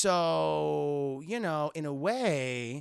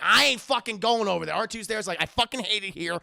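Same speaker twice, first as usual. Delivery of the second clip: loud grumpy R2 voice; 7 dB louder, faster than usual. Retold or imitated. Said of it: "R two's like".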